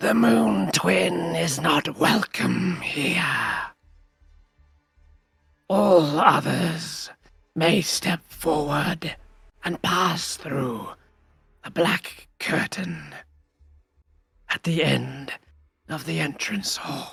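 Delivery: rasping, high-pitched hag voice. A game master voices a door shaped like a skull-faced hag, raspy hag voice. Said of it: "you hear it speak in a raspy voice".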